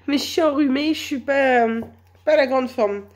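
real head-cold voice, apologetic; duck-like voice from a cold; stuffed-up cold voice. Real, not acted. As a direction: talk like you are under the weather with a cold. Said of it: "ma voix de canard".

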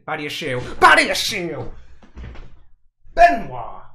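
explosive, high, very loud shout of the scorer's name; goal celebration shout. Real, not acted. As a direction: erupt as the goal goes in.

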